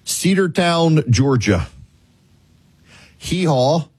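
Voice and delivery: grave delivery with long dramatic pauses; mock-solemn announcement. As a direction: break it into short, weighty phrases, pausing long between them. Grave announcement of donkey's death.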